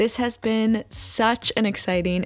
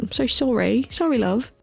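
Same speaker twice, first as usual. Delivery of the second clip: put-on slipping into a British accent; 3 semitones higher than usual. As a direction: say sorry, love like a Brit. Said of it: "Why'd I go British at the end".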